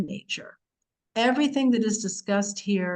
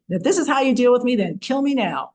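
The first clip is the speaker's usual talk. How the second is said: louder, fast fed-up mother's outburst; exasperated mother; 3 semitones higher, 5 dB louder than usual. Retold or imitated. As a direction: blurt it out like a mother at the end of her rope. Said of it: "you can imagine your mother saying this too".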